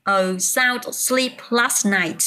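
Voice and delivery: slow, careful teacher reading of the sentence; teacher models the past tense sentence slowly. Shown as a demonstration. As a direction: spell out I had a sound sleep last night slowly. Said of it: "Từ have chuyển thành quá khứ".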